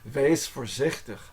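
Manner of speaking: "Wees voorzichtig" said slowly, "voorzichtig" as for-zikh-tuh; slow "Wees voorzichtig" down so it can be learned; slow careful demo. Shown as a demonstration. Teacher showing the hard word slowly. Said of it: "voorzichtig is a hard one to say".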